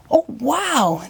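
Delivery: light gasp. Acted. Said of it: "they gasp".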